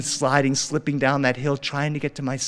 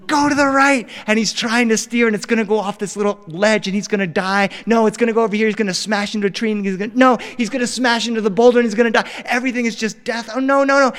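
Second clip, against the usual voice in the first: high, loud frantic shouting; re-enacted fatherly alarm, raised voice; panicked dad; 7 semitones higher, 5 dB louder, faster than usual. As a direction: blurt it out in mounting panic. Panicked father watches son sled.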